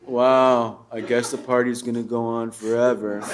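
dry, ironic drawl, lightly played; mock sarcastic nineties guy; nineties sarcasm. Comic imitating nineties irony, dry and ironic. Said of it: "very sar-, purposefully sarcastic".

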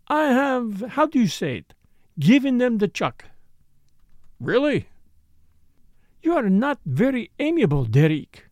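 a hint of French, pouting at him; lightly French-accented Morel. Morel's voice held.

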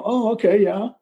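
sudden understanding. Retold or imitated. Retold reply as he understands.

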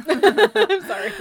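laughing through hiccups; hiccupping and apologising. Real, not acted. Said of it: "I have hiccups".

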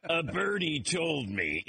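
slow, laughing fake pondering; mock musing. Analyst who got information early, laughing mock musing. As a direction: stretch it out, chuckling at the pretence. Mocks insider pretending to guess.

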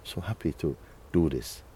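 softly spoken gratitude; thankful, happy. Acted. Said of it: "you feel, you know".

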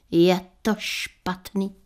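slow, mildly sorrowful verdict; a hint of mock sadness, drawn out; sad, slow. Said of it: "řekla smutně".

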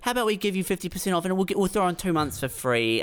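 high, fast, sweet-talking sales voice; hammed-up pushy sales rep; mock salesman. Telco rep cutting him a deal, hammed-up salesman voice.

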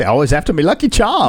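quick mock-Irish accent. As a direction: do a cereal-advert Irish accent. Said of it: "I cannot do an Irish accent".

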